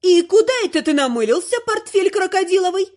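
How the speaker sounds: высоко и громко, с угрозой; окликнуть зятя грозно; грозная бабуля. Acted. (грозно и высоко)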